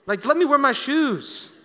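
laughing. Real, not acted. Joking complaint about removing shoes.

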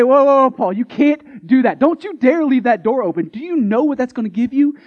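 playing the worried churchgoer stopping Paul; alarmed objector. Preacher voicing a worried churchgoer, mock alarm.

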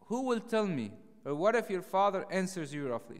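anxious cry of a frightened friend; worried David. Retold or imitated. Worried David voiced in retelling.

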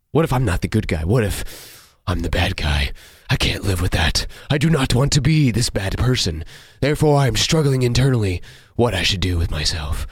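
melodramatic brooding vampire; mock tortured hero voice; overacting. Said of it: "you're overacting, overcompensating, too dramatic".

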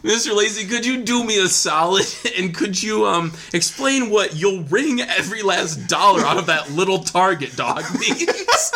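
lightly voiced prosecutor, half laughing; prosecutor impression. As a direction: ask it like a grinning prosecutor. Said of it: "this is your prosecutor impression".

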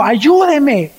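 a dying man's plea; weak plea. Retold or imitated. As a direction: beg for help before collapsing. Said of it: "le dijo".

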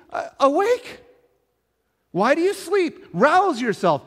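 high, loud rousing cry; urgent shout. Acted. Preacher voicing disciples waking Jesus, urgent shout. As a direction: shout them awake.

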